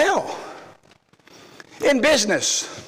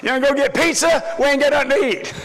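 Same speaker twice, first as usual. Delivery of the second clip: mock holler; 5 semitones higher than usual. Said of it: "I holler at my wife".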